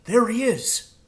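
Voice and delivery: high excited crow. Acted. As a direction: spot him and point, eager. Crow voiced in story.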